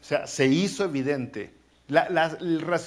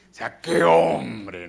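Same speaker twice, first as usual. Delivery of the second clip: admiring exclamation; 6 semitones lower, 6 dB louder, much slower than usual. Real, not acted. Preacher admiring Samuel.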